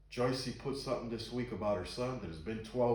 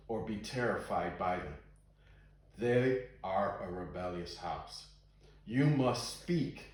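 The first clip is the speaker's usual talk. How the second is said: slow, deliberate Bible reading; scripture reading. A narrator's reading. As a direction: read the verse out with weighty pauses. Reads scripture aloud to listeners.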